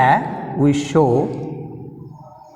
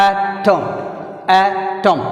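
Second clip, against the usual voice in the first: "atom" with a held first syllable and falling end; teacher modelling "atom", stressed at the start; much slower than usual. Shown as a demonstration. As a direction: lean on the A of "atom". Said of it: "stress ఉంది".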